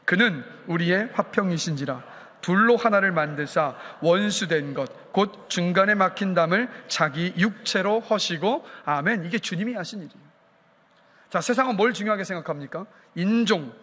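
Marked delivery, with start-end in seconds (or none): 0.0-8.6 slow, measured reading aloud; scripture reading. Real, not acted. Pastor leading the congregation in a Bible verse, slow measured reading. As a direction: read it out slowly for a congregation to join in. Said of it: "한 목소리 한번 읽어보겠습니다".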